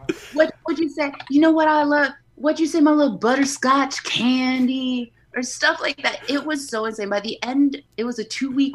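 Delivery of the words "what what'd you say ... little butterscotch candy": high, loud, hammed-up sweet talk; mock-flirty doorman routine; candy-name banter. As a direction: play coy with a candy pet name.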